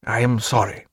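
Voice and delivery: stiff and formal apology; a stiff apology from a man about to propose; harsh formal. A narrator's reading. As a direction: hold your feelings back, correct and cold. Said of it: "in a harsh, formal voice".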